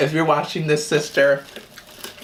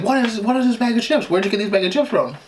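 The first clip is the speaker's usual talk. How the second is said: grandma questioning; 8 semitones higher than usual. Retold or imitated. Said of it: "she's like".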